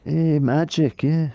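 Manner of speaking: overjoyed rider greeting roadside fans; excited Plappy. Retold or imitated. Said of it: "full on Plappy style".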